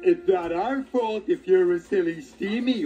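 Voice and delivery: oily sneer. A narrator's reading. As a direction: slide the insult in smoothly. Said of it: "oiled Bert".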